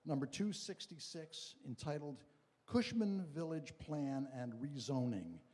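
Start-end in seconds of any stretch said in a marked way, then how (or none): 2.7-5.4 slow, deliberate read with weight on Rezoning; emphasis on Rezoning. Real, not acted. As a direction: lean on the word Rezoning, spelling out the item slowly. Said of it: "I emphasize the word rezoning".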